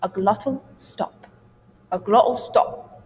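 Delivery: GLOTTAL with the t made in the throat; glottal stop demo. Shown as a demonstration. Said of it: "This is called the glottal stop".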